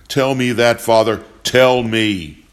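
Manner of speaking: loud, angry demand; shaking with anger. Acted. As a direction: shout it at him, furious. Angry father demands an answer.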